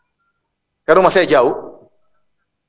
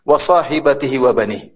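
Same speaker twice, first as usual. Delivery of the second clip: Quran recitation. Acted. Preacher quoting Al-Quran to his listeners, measured recitation. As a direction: recite the verse in a lightly chanted cadence.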